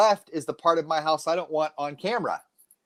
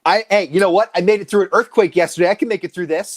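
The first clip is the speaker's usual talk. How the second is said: defiant boast; 3 semitones higher, 6 dB louder than usual. Real, not acted.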